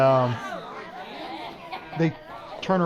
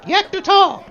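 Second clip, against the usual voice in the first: "Yak the Tall." louder, stress falling on "Tall."; correcting; 4 semitones higher, 5 dB louder than usual. Shown as a demonstration. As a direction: firmly set straight: "Yak the Tall." with "Tall." hit hard. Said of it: "No, not yank the tail".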